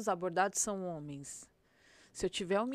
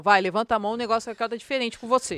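louder, barked police command; tough cop voice; 10 dB louder than usual. Pretend. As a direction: talk like a cop ordering a suspect around. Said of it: "Até a entonação da voz mudou". (voz de policial durona, alta e firme)

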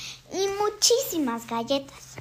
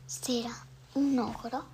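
whisper; 6 dB quieter than usual. Shown as a demonstration. Whispered guess about the ogre.

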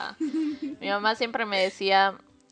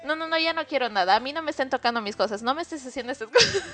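higher, quick imitated nagging; mock huffy refusal; 5 semitones higher, faster than usual. Mom refusing her daughter's help, mock huffy refusal. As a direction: reject the help like a huffy mother.

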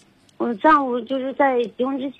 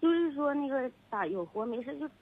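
faint, fading phone voice; drifting off the mic; far from phone; 9 dB quieter than usual. Real, not acted. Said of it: "你为什么声音忽大忽小呢".

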